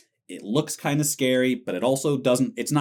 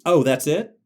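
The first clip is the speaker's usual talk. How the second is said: raised, incredulous re-enacted reaction; underwhelmed disbelief; 4 semitones higher, 4 dB louder than usual. Horror fan retelling their first let-down, underwhelmed disbelief. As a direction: act out being let down, a bit louder.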